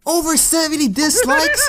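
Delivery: high laughing shock at the number; incredulous laughing squeal; laughing disbelief. Real, not acted. Shocked at dislike count.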